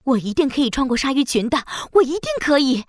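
fast, resolute self-encouragement; determined and urgent. Acted. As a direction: steel yourself, hurry. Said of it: "一点都不怕". (坚定又着急)

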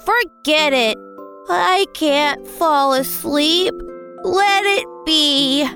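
resigned. Acted. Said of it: "decided to give up".

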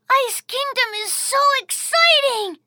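ordinary delivery

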